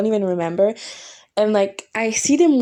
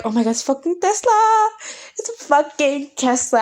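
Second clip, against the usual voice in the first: thrilled squeal; 6 semitones higher than usual. Retold or imitated. Excited at Tesla arriving.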